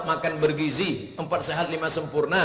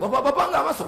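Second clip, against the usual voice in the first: alarmed question; 13 semitones higher, 5 dB louder, much faster than usual. Retold or imitated. He asks the staff, alarmed.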